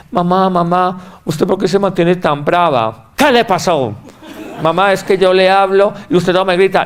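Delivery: put-on small child pleading, pitched a little up. A boy asks his mother why she is angry, childlike. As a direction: mimic a worried kid asking mom.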